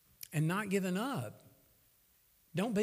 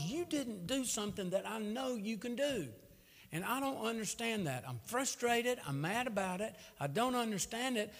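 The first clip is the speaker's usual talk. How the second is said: frustrated venting; 6 semitones higher than usual. Retold or imitated. Retold venting prayer to God.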